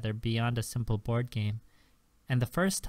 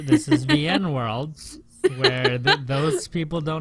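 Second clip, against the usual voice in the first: emphatic; 3 semitones higher, 8 dB louder than usual. Real, not acted. Insists telemarketers don't exist here.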